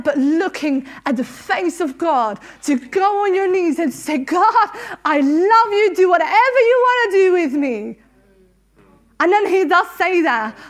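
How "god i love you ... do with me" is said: tearful prayer. Real, not acted. Praying on her knees to God, tearful. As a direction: voice catching with tears as she prays. Kneeling prayer, laughing and crying.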